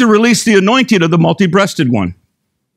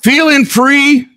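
lyrics read with rising, hammed-up excitement, higher and higher; mock dramatic reading; 4 semitones higher than usual. Preacher reading country song lyrics to the congregation, hammed-up and climbing. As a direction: ham up the breakup lyrics like a ballad. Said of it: "here's some of the words".

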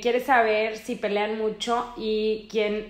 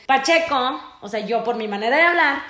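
usual speaking voice

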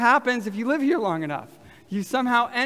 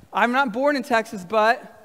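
raised pitch, left open for the room; livelier prompt; 2 semitones higher, 5 dB louder than usual. Shown as a demonstration. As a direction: say it with more life, inviting them to finish. Livelier retry after asking for life.

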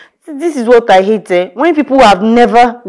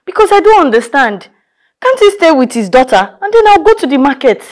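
exasperated; 6 semitones higher than usual. Acted. Exasperated rant about husband.

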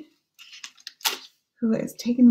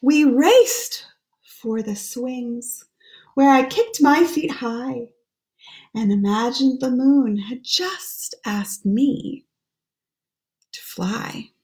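put-on hushed, lilting read-aloud for children; gentle storybook voice; story reading. Reads the rhyming book aloud.

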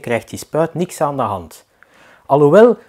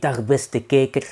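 mock TV presenter; slower than usual. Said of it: "op de V R T".

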